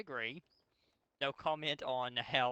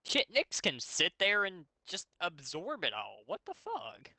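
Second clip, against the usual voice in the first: disbelief; 6 semitones higher than usual. Real, not acted. Mocking the fic's weak heroes.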